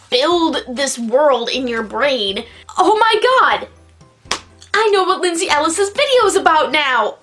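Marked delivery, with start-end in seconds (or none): 2.8-7.2 sudden realization. Real, not acted. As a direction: blurt out the realization.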